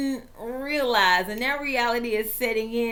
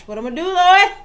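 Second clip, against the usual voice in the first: hammed-up anguished cry to the Lord, much louder and higher; mock wail; 8 semitones higher, 12 dB louder than usual. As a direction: wail it out like a football fan in despair. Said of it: "That's how I'm feeling right now".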